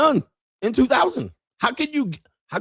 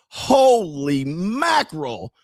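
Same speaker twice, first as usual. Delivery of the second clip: stunned; 4 semitones higher, much slower than usual. Acted. Stunned by the show.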